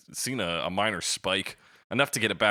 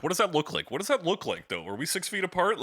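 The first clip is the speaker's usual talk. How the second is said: higher, puzzled self-questioning; anxious inner voice; 10 semitones higher than usual. Retold or imitated. Podcast host, retelling sidewalk worries, a higher fretting voice. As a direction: fret over the distance in a raised voice. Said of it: "I'm like".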